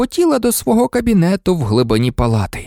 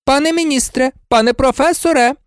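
high-pitched indignant nurse; raised pitch, cross appeal; angry; 14 semitones higher than usual. A narrator's reading. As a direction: scold the officials sharply. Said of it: "розсердилася мадам Помфрі".

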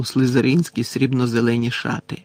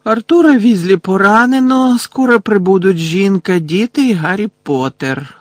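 bored repetition; 7 semitones higher, 6 dB louder than usual. A narrator's reading. Phineas repeating Dumbledore's message, loudly bored. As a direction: parrot the message back with weary exaggeration. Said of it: "знуджено повторив Фінеас".

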